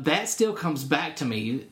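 ordinary talk

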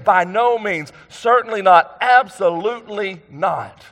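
"By no means, certainly not, absolutely not" pitched high, each denial punched; emphatic negation. Retold or imitated. Preacher paraphrasing Jesus' double "not", emphatic. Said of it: "for emphatic emphasis".

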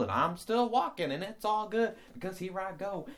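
the happy hiker who laughs at his own trips; cheerful clumsy hiker. Pretend. Plays cheerful hiker who keeps stumbling.

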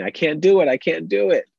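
high, loud mock toddler whine; upset child. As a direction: repeat it like a frustrated little kid. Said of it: "she's so upset about the bag, she keeps repeating".

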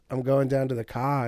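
Australian vowels on "going down to the car"; Australian accent. Shown as a demonstration. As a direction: say "I'm going down to the car" the Aussie way. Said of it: "Jermaine's way of explaining".

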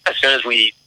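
choppy call audio, bad connection. Real, not acted. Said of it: "Hey, Mark, you're cutting out".

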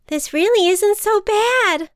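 high, loud, delighted butterfly; excited storybook voice; pleasantly surprised. A narrator's reading. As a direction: call out with giddy relief. Butterfly starts enjoying the flight.

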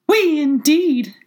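very high, loud, drawn-out mouse squeal; indignant mouse cry. A narrator's reading. Trembling mouse rebukes Alice, indignant shrill cry. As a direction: squeal it slowly in high outrage. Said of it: "cried the mouse, who was trembling".

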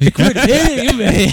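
high, slow, laughing mock cry; fluttering cries for help. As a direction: squeal it out through laughter.

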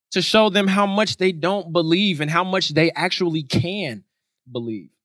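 ordinary delivery

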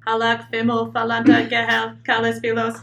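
flat monotone robot voice; no inflection, like a cheap voice modulator. Shown as a demonstration. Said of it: "not much potential for vocal, like, inflection".

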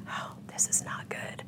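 breathless hush, slow; a hushed inner warning, drawn out; whispered thought. Retold or imitated. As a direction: whisper it as a private dread. Inner alarm at the desert house.

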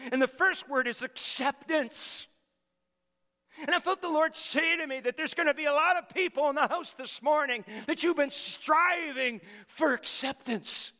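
impassioned sermon delivery; fervent preaching. Acted. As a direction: preach it out to the house. Preaching at full force.

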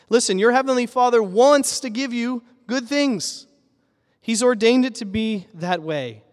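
fervent sermon push; emphatic preaching. Real, not acted. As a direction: urge them, raise your voice. Preacher urging congregation.

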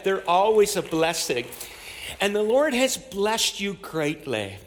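ordinary talk

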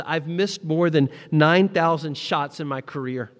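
booming quote from the pulpit; preached Jordan quote. Retold or imitated. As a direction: proclaim it like a rallying cry. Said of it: "Michael Jordan once said this".

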